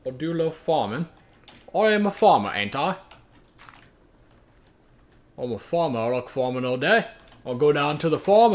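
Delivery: hammed-up Irish farmer voice; Irish farmer accent. Farmer boasting about his day and his beers, hammed-up Irish accent. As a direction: play an Irish farmer rambling in a thick put-on accent. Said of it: "like an Irish farmer".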